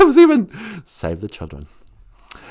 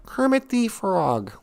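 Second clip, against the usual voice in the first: a light hint of a frog puppet, a bit slow; lightly voiced puppet frog; Kermit the Frog; 5 dB quieter, slower than usual. Streamer attempting Kermit for the chat, a lightly voiced frog. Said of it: "and, uh, Kermit the Frog".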